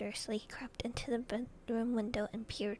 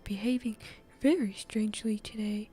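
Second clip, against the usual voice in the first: loud, emphatic news-anchor delivery; punchy bulletin read; TV newscaster; 6 dB louder than usual. Acted. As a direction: project it like an evening news report. Reads as the newscaster.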